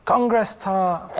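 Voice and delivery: slow, deliberate "Congress tart"; code word. Pretend. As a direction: say the code word slowly into the phone. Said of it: "ring, ring".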